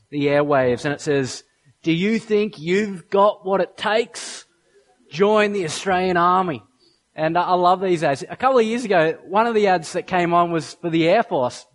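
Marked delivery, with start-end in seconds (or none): 1.8-6.6 a hint of a recruiting-ad voice, measured; earthy Aussie voice-over. Preacher quoting the army ad's voice-over to the church, earthy Aussie announcer. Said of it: "this earthy Aussie voice comes over".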